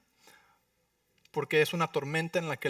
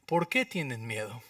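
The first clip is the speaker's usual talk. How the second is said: gentle whisper; 6 semitones lower, 5 dB quieter than usual. Acted. Jesus asks gently why afraid.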